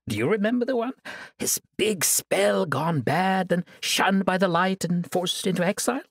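taunting sorceress, savoring every word; gloating villainess. Acted. Sorceress gloating over her chained prisoner, taunting.

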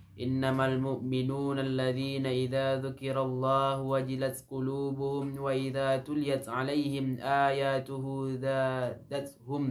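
measured, melodic recital of Quranic verse; Quran recitation. Acted. Preacher recites Quranic verse to the congregation, melodic and measured. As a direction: recite the verse as in a Friday khutbah.

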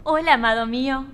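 sweetly submissive ad housewife, lightly played; mildly theatrical devoted wife; doting housewife. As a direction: greet him like an adoring commercial wife. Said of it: "la próxima un poquito más sumisa".

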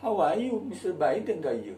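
cheerful accented greeting to Biden; local accent English. Shown as a demonstration. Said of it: "Ngomong sama Biden ya ngomongnya begitu".

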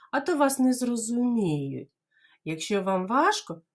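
ordinary delivery

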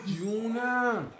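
very slow, drawn-out soothing words; slow tender comfort. Real, not acted. Father comforting his crying baby, slow and tender. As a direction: stretch each word gently to calm him.

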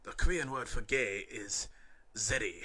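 a light hint of a Korean accent. Exchange student answering the classmate, lightly Korean-accented. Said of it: "he said in his accent".

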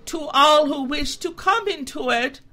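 a goat trying to please; polite humbled goat; meek goat. A narrator's reading.

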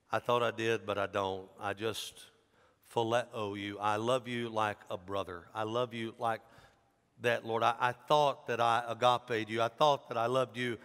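low, subdued admission; understated acted sorrow, halting; weeping confession. Disciple confessing his lesser love to Jesus, subdued sadness. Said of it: "And he wept".

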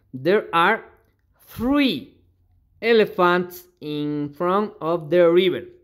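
slow, careful dictation of an English sentence; drawn-out teaching read. Shown as a demonstration. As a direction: lay out each word for the class. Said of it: "teacher reads example slowly".

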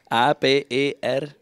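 spelling it out. Real, not acted. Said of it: "wie würdest du Erdbeertörtli buchstabieren".

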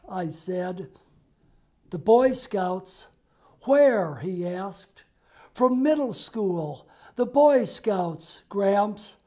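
measured, rhythmic reading of blank verse; poetry reading. Acted. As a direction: read the poem aloud, steady and unhurried. Reads his blank verse poem.

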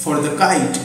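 slow, with pauses between words; slow dictated sentence; slow dictation. Shown as a demonstration. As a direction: read it out for note-taking. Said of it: "এখানে তোমরা লিখবে".

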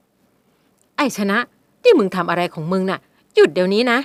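put-on mother yells at her young husband; loud scolding. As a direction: snap at the husband. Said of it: "กันที่มาตวาดเสียงดัง".

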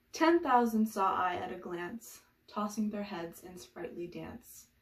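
measured epigraph reading, strong opening then easing off; formal poem reading; poetry recitation. Acted. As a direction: recite the verse, starting strong and letting it settle. Reads a poem's epigraph.

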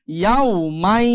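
slow "ইয়াও মাই", nasal glide held on "মাই"; merged ghunna. Shown as a demonstration. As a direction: stretch the end of "মাই" through the nose. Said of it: "এখন উচ্চারণ হবে".

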